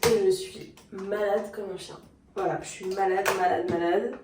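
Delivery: sore-throat voice, speaking while ill; sick voice. Real, not acted. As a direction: talk through a raw, burning throat. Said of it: "j'ai de la gorge en feu".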